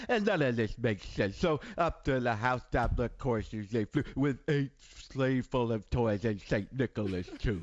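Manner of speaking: put-on lisping old coach voice; Lou Holtz impression. Impressionist doing Lou Holtz for the host, lightly voiced. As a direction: talk like a rambling old football coach. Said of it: "Lou Holtz".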